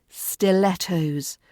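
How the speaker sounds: "Stilettos" slowly, short E: stil-ET-ohz; slow model "Stilettos" with LET in the middle; correct pronunciation. Shown as a demonstration. Teacher modelling the shoe word for learners, correct short vowel. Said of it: "not stilettos".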